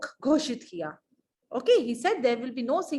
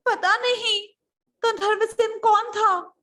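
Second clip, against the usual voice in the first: high, loud nervous confession; flustered minister; 11 semitones higher, 6 dB louder than usual. Acted. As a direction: blurt it out in panic. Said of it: "अब मुख्यमंत्री घबरा गए". (घबराए मुख्यमंत्री की आवाज़)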